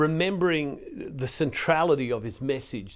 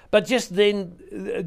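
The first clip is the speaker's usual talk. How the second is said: slow, higher and louder; slow dramatic build; 6 semitones higher, 5 dB louder, much slower than usual. Acted. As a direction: draw out the moment before the story turns. Dramatic turn in the scripture reading.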